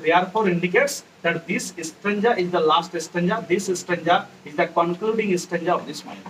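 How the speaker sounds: very slow, word by word English; slow dictation. Shown as a demonstration. Teacher dictating the poem's line slowly to students. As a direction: spell each word out slowly for the class.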